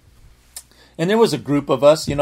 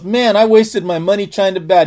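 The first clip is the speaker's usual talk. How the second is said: put-on mildly excited retelling of a kid; fired-up kid; 4 semitones higher than usual. Healed boy to the preacher about his wasted money, fired up. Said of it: "he was all fired up".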